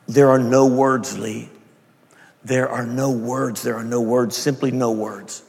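slow, halting repetition, weighting each word; struggling to speak. Retold or imitated. Woman overwhelmed by grace at the interview's end, struggling to speak. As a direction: let the words come slowly, with pauses. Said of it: "tried to speak, but words wouldn't come out".

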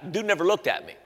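hushed whispered aside; whispering to the congregation. Real, not acted. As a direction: drop to a breathy confiding whisper. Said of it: "whispered aside".

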